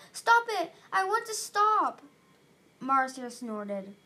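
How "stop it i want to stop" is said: high, loud plea to stop; desperate yell. A narrator's reading. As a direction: yell it out in protest.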